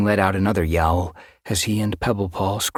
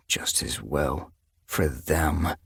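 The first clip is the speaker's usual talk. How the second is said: slow, soft growl under the breath; growling to himself; 4 dB quieter, much slower than usual. Acted. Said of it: "he growled to himself".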